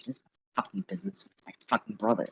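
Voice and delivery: fast, soft mumble under the breath; sulky mumble to herself; mumbling. Acted. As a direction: grumble it to yourself, fast and soft. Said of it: "Nastasia starts, like, mumbling".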